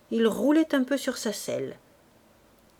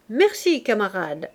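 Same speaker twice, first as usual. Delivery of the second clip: called thanks; 3 dB louder than usual. Acted. Hussar calling thanks to Fabrice, mildly loud. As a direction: call thanks after tossing the bottle. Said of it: "cria-t-il à Fabrice".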